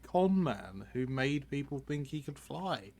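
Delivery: talking while crunching chips; words round a mouthful of chips. Real, not acted. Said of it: "I apologize for the crunching".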